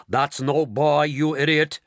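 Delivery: angry shout. Acted. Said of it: "shouted ground control".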